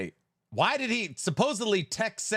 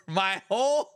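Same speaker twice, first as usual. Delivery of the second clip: mock despair; 6 semitones higher, 3 dB louder than usual. Retrying the mock lament.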